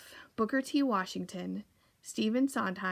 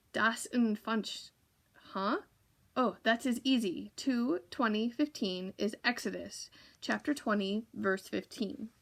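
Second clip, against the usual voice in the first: put-on German accent. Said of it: "with a thick German accent".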